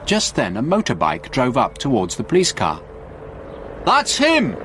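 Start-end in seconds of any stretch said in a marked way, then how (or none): 3.9-4.6 high, urgent exclamation; excited shout. A narrator's reading. Frank spots Stewart on the motorbike, shouting excitedly. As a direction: cry out excitedly, pitch leaping up. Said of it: "shouted Frank excitedly".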